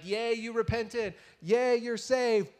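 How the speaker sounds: drawn-out pretend cheer; mock cheering. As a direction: stretch it into a slow mock hooray. Mimicking God cheering the repentant city.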